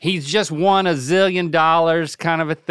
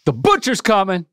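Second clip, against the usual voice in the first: rapper ad lib; 3 semitones higher than usual. Shown as a demonstration. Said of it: "the rapper".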